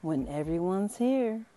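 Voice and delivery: lightly voiced mummy teacher, cheerful; a hint of a kindly old mummy; Miss Mommy voice. Teacher greeting her monster class, lightly voiced.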